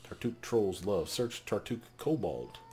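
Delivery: slow loud halting creature words; lightly voiced slow kobold; slow broken kobold. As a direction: drag each word out like a simple elder. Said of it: "kobold speaks in broken words".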